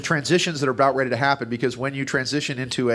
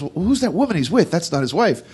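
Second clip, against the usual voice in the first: higher, curious wife voice; wife's question; 5 semitones higher, 3 dB louder than usual. Retold or imitated. Joke-teller voicing the wife asking about the woman, mildly higher. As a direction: lightly play the nosy wife. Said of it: "And he goes".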